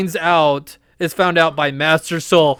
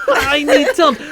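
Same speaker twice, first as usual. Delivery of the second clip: high, whiny fake sob; higher mock-crying plea; mock whimpering plea; 10 semitones higher, 3 dB louder than usual. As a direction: whimper for antacids like a baby. Mocking sick Jedi.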